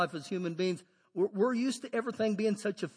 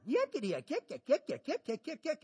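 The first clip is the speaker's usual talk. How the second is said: demon yakking; 5 semitones higher, 4 dB quieter than usual. Retold or imitated. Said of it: "the demon started yakking".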